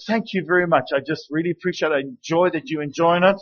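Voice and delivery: quietly grateful, accepting the compliment; gracious thanks. Shown as a demonstration. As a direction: receive the praise gladly and softly. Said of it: "I say to them".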